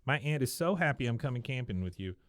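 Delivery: put-on high-pitched girlish phone voice; Luann. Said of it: "Luann comes over and".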